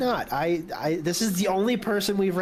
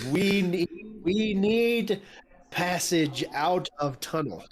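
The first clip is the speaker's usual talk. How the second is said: broken giant speech; 3 semitones higher than usual. Acted. Player answers giant in Giant.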